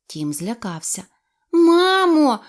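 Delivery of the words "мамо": high loud call out. A narrator's reading. Frightened duckling calls for his mother. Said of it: "загукав він".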